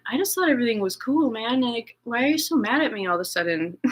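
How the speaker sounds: bewildered, half-laughing protest; playing her own baffled self; confused protest. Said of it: "and I'm just going".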